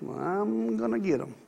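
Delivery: mock vow of revenge. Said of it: "has said that or at least thought that".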